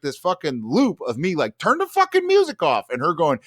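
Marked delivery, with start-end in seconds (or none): 1.6-2.9 very high, loud frantic shout; high loud mock panic shout; frantic yell. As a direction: scream it in panic. Frantic demand.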